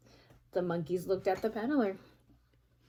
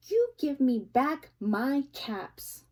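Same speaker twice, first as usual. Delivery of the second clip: slow, firm demand; scolding peddler; 4 semitones higher, 4 dB louder than usual. Acted. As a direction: spell it out to naughty monkeys. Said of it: "he said, shaking his finger".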